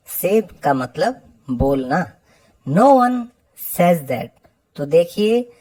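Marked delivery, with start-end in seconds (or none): 2.7-4.3 says said sez with short e, not say-z. Shown as a demonstration. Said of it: "इसको हम pronounce करते हैं सेज".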